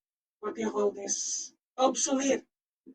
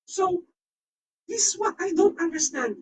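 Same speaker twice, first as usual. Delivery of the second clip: exasperated; 7 semitones higher than usual. Real, not acted. Baffled rant about Japan.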